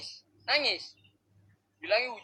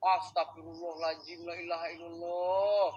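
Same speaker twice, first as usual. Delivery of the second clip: quiet prayer; 7 semitones lower, 5 dB quieter than usual. Real, not acted. Muttered prayer after a fright.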